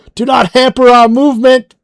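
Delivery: very high, shrill, loud screaming. A character in the story screams out at Abel; screaming. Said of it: "he screams out".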